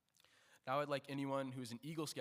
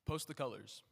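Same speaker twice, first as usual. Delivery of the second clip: drill command. Real, not acted. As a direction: bark the order to the guard. Commands during flag ceremony.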